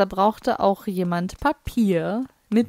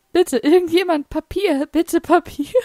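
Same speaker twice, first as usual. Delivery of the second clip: begging toilet guy; 8 semitones higher, 4 dB louder than usual. Acted. Voices the toilet character begging.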